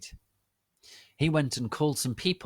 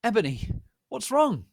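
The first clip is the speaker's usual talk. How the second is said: a raised, worried call; Draco asking; 13 semitones higher, 6 dB louder than usual. Acted. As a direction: ask with alarm, higher and louder. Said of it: "Draco asked me".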